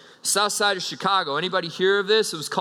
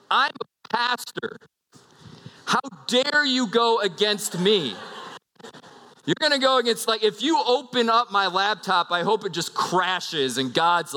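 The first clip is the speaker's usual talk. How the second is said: pitched up, indignant pretend rant at the thief; mock outrage; 3 semitones higher than usual. Pastor rants at whoever stole his laptop, mock outraged. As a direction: play up the wounded pastor's righteous fury, half joking.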